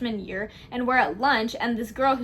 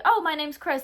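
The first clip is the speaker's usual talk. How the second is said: friendly, slightly higher greeting; nice introduction; 4 semitones higher than usual. Retold or imitated. Friend acting out the boyfriend's first meeting, nice and friendly. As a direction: imitate a nice guy introducing himself. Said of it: "like, nice to you".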